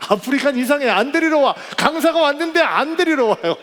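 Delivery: venting that nobody came to fetch him; exasperated complaint. Retold or imitated.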